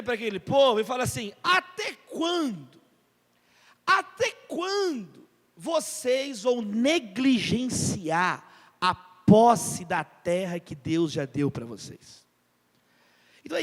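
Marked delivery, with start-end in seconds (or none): 1.4-12.3 slow stern rebuke. Retold or imitated. Joshua rebukes the people.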